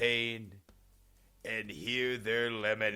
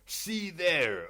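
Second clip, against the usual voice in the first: sudden alarmed call, higher and louder; alarmed cry; 9 semitones higher, 5 dB louder than usual. A narrator's reading. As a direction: point at the beast in fright. Pointing out the beast in fear.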